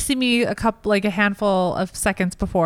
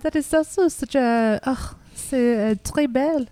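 put-on French accent; 2 semitones higher than usual. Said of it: "This is a good accent".

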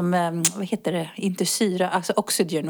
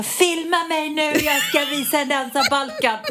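imitating a friend, higher and slow; mock tipsy announcement; 7 semitones higher than usual. Friend at party announces her Balkan dance, imitating higher and slow. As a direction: ham up a giddy party boast, slowly.

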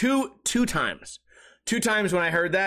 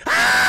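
shrill sudden scream, much higher and louder; panicked scream; 8 dB louder than usual. Retold or imitated. Frightened kid screams in pitch-black bathroom. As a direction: let out a terrified shriek.

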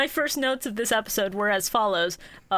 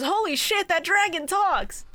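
amazed crowd; 6 semitones higher than usual. Retold or imitated. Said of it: "The entire crowd just goes".

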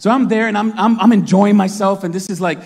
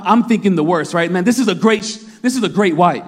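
ordinary delivery

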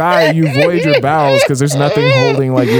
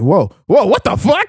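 mock shock; 4 semitones higher than usual. George sees Abe fall bleeding.

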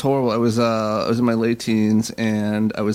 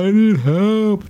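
desperate plea; 9 semitones higher, 3 dB louder, much slower than usual. Retold or imitated. Panicked plea while high.

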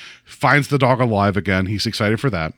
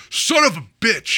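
higher-pitched mock cursing; mock frustration; 8 semitones higher than usual. Voicing the dog pulled from steak land, mock frustration. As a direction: curse in playful frustration.

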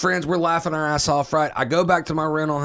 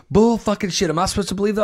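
disbelieving wife; 6 semitones higher, faster than usual. Retold or imitated. Wife disbelieving, retold quarrel.

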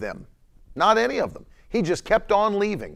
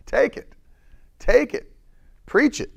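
urging on; 7 semitones higher than usual. Real, not acted.

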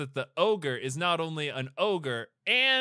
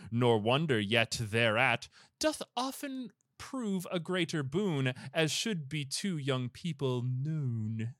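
poem recitation. Acted. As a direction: declaim an old rhymed moral. Reads rhymed moral aloud.

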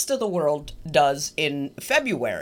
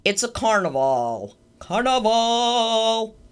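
building into a drawn-out Slovenian-style "carnival"; rough stab at a Slovenian accent; attempted Slovenian accent; 2 semitones higher, slower than usual. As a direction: stretch it out in a mock Slovenian accent. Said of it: "how to do a Slovenian accent".

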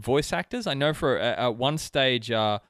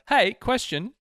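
shouting a single word; yelled; 8 semitones higher, slower than usual. Pretend. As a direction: bark it out like Dwight. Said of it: "just yelling out question".

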